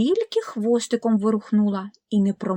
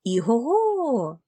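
a slow, drawn-out neigh; slow horse whinny; 3 semitones higher, slower than usual. Acted. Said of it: "сказав кінь".

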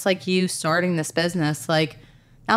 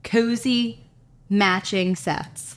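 excited; 4 semitones higher than usual. Retold or imitated. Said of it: "I was like".

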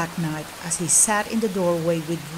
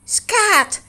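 higher, louder sharp shout; angry shoo; 12 semitones higher, 4 dB louder than usual. Acted. Master chasing the cat out the door, loud angry shoo. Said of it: "scolded Lorenzo".

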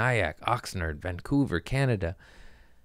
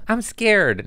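mock scared squeak; 12 semitones higher than usual. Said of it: "I'd be like".

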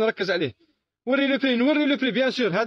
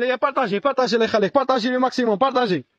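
louder, pushing plea to share the stream; loud call to share; 4 dB louder than usual. Real, not acted. Seller loudly urging live viewers to share the video.

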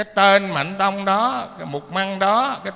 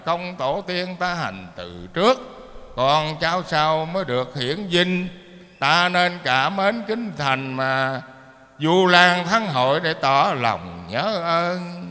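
slow, measured chanting of the verse; a sermon verse recited slowly and deliberately; poem recitation. Acted. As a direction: intone it like a temple poem, drawing out the last lines. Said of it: "có thơ rằng".

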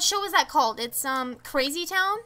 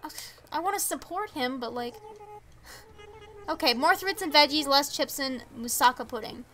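ordinary talk, nothing marked

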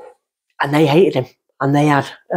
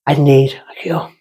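desperate plea. Retold or imitated. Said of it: "I just cried out".

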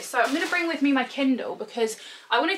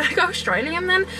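higher-pitched, badly faked Australian accent; hammed-up attempt at Australian; 8 semitones higher than usual. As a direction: botch an Australian accent as a joke. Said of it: "That was the worst accent ever".

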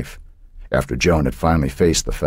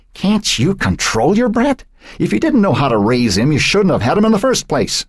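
harsh grandmother; 12 semitones higher than usual. A narrator's reading. Grandmother berating daughter over her child, contemptuous. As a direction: spit the words down at her daughter.

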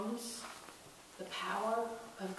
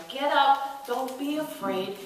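urgent call; 5 semitones higher, 6 dB louder, slower than usual. Acted. Jesus urging disciples.

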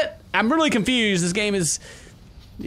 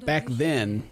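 reading aloud; 2 semitones lower, 4 dB quieter than usual. Acted. Player reading a soldier's notebook aloud, measured. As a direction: read it out in a lowered voice. Reads game text aloud.

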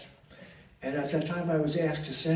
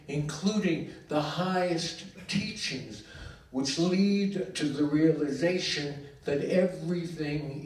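emphatic, incantatory poetry reading; poem recital; 2 semitones higher than usual. Acted. Poet reading a tribute poem for Bernard, declaimed. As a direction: declaim it in measured phrases, leaning on key words.

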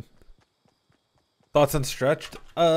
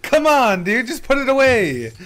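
laughing; 11 semitones higher, 8 dB louder, slower than usual. Real, not acted. Laughing at teammate's mistake.

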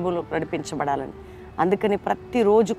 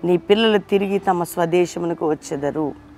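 louder solemn scripture read; 7 dB louder than usual. Acted. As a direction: proclaim the verses with weight. Reads scripture aloud solemnly.

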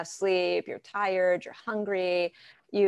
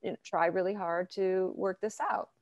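softer, gentle offer to listen; a soft conciliatory voice; gently offering to listen to an angry partner; graceful and kind; 5 dB quieter than usual. Pretend. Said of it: "be more graceful and kind and say".

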